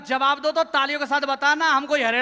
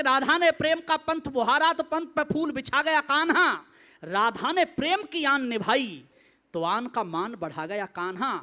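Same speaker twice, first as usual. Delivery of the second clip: measured, lilting verse; devotional poetry recitation; 2 semitones lower than usual. Acted. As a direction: recite line by line with pauses.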